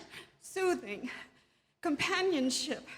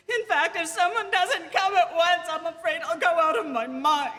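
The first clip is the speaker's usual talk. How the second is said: panicked; 2 semitones higher, 6 dB louder than usual. Acted. Panicked invalid demanding a nurse.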